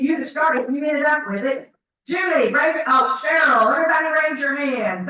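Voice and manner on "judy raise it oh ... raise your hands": calling out. Real, not acted. Shouting to winners in crowd.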